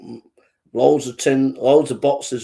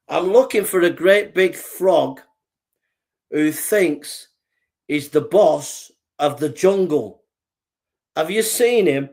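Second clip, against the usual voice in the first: slow, deliberate lion; challenging lion; 4 semitones higher, slower than usual. Acted. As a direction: question slowly, with measured authority. Lion confronts the boastful frog.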